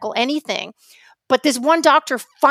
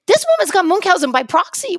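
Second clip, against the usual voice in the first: raised voice stating the discovery; emphatic realization; 6 semitones higher than usual. Retold or imitated. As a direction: announce it like a breakthrough. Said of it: "and I'm like".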